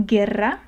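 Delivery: "guerra," with hard G and silent U; normal hard G. Shown as a demonstration. Teacher showing the easier G, "guerra," with hard G, silent U. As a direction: say "guerra," as geh-rra, no W sound. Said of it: "you just read the G in its normal form".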